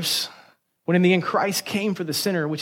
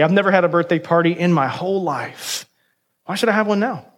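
mildly indignant, wounded protest; acted put-upon complaint; hurt protest. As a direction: plead your case, a touch offended. Hurt woman protests in acted story.

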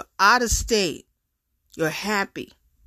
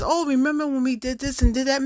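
mocking nostalgic guy; 6 semitones higher, faster than usual. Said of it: "they start going back into the past".

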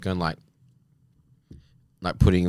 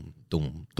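imitated drop beat; 3 semitones lower, 7 dB quieter than usual. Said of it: "It's exactly the same drop".

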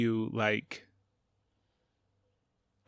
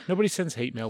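laughing reassurance. Real, not acted.

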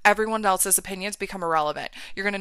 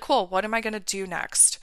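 softer, steady, unbothered self-talk; acted calm; 5 dB quieter than usual. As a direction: play someone calmly grounded. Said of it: "you're gonna feel steady".

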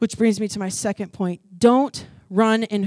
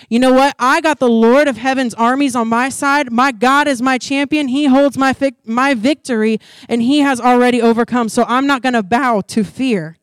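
louder, emphatic statement of faith; bold declaration; 3 semitones higher, 5 dB louder than usual. Acted. Believer facing a hard situation declares God their champion, emphatically. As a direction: declare it firmly, punching the key words. Preacher acts out defiant declaration.

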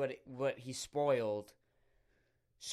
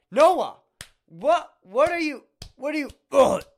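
much higher and louder, a squealing disbelieving cry; shocked shriek; 10 semitones higher, 11 dB louder than usual. Retold or imitated. Shrieking at Noah in retold horror. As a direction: screech it in horrified disbelief.

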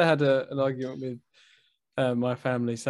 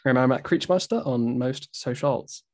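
odd delivery; 2 semitones lower, slower than usual. Real, not acted. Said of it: "I don't know why I said it like that".

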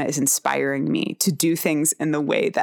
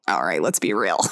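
laughing correction; 2 semitones higher than usual. Real, not acted. Catching herself, laughing.

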